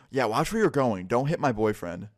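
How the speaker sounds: snippy scolding as the mean girl, lightly acted. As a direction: imitate a mean girl telling someone off. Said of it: "A K A the mean girl".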